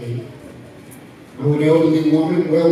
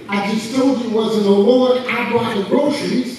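mildly exasperated, raised-pitch protest; retold upset; 4 semitones higher than usual. Atheist neighbor to the rejoicing woman, retold exasperation. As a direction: protest it higher, baffled and put out. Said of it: "the man got upset with me".

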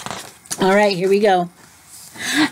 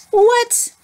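mock surprise; 12 semitones higher than usual.

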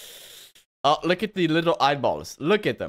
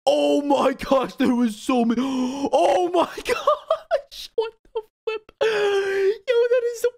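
high shouting laughter; shocked laughter; 11 semitones higher, 3 dB louder, much slower than usual. Real, not acted. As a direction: yell and laugh in disbelief. Huge crowd dying on screen.

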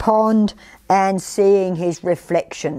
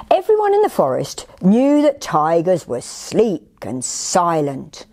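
story narration. A narrator's reading. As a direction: read it dramatically to young children. Reads picture book to children.

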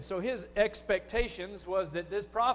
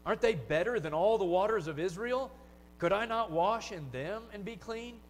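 raging Naaman. Retold or imitated. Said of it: "he goes on in his rage there".

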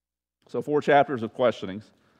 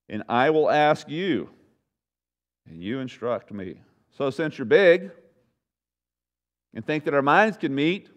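over-the-top God; 6 semitones higher, 5 dB louder than usual. Acted. God confronting Job, booming and over the top. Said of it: "He comes to him in this very, um, over-the-top way".

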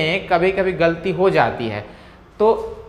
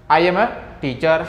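slow, clear teacher demo; slow model sentence; much slower than usual. Shown as a demonstration. Teacher modelling the sentence slowly for Hindi students. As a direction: say each word slowly for students. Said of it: "बोलने का practice करना पड़ेगा".

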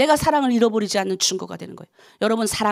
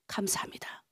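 soft unvoiced whisper of thanks; 5 semitones lower, 17 dB quieter than usual. Shown as a demonstration. Whispered thanksgiving prayer example. (속삭이는 감사)

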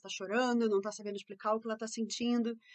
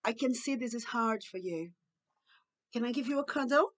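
tender empathy. Shown as a demonstration. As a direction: comfort a child gently. Models empathetic replacement phrase. (acolhimento calmo e gentil)

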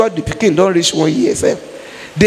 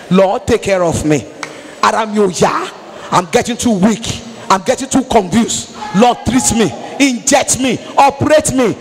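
rising prayer. Acted. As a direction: start pleading, then press harder. Building prayer.

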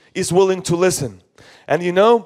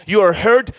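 ordinary talk

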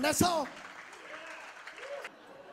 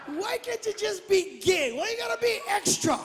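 higher, pleading, exasperated complaint; exasperated dad; 5 semitones higher than usual. Retold or imitated. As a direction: scold the son in disbelief. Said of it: "I tell him".

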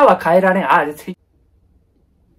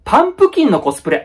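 sudden realization; 5 semitones higher, 4 dB louder, faster than usual. Shown as a demonstration. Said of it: "パンプキンのコスプレってなんだよ".

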